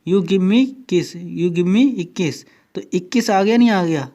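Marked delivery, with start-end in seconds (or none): 0.1-2.4 run together fast. Shown as a demonstration. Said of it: "जल्दी जल्दी बोलिए".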